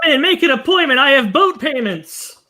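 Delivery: hammed-up plea, slowing at the end; desperate doctor. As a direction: beg patients like a desperate doctor. Acting desperate doctor begging for patients.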